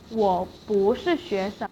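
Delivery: 不 rising inside the sentence; second tone on 不. Shown as a demonstration. Teacher showing how 不 changes in a sentence, rising tone on 不. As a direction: let 不 climb before 是. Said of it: "不 in the sentence have two".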